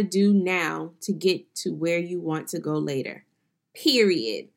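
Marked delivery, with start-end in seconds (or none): 3.7-4.5 put-on sassy city girl Period. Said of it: "In my city girl's voice".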